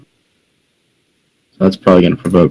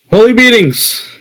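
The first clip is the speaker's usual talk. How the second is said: pitched way up in amazement; amazed exclamation; 13 semitones higher than usual. Real, not acted. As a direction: cry it out high, in astonishment. Exclaims at the player's turn.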